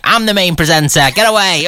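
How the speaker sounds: imitating a co-host's self-important bluster; hammed-up diva shooing people off; put-on whinge ending in a wail; mock pushy presenter. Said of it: "It's my voice that you're doing".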